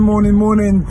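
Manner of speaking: loud, falling repeated hello; emphatic greeting. Real, not acted. Sing-song greeting to viewers.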